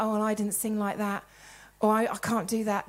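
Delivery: low, deflated grumble; mock self-pity. Voicing someone unable to celebrate others.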